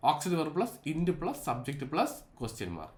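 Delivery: deliberate, slow rule recital; slow dictation. Shown as a demonstration. Teacher reading the structure to students, slowly. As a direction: spell out the formula word by word, slowly. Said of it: "ഇതാണ് ഒരു structure".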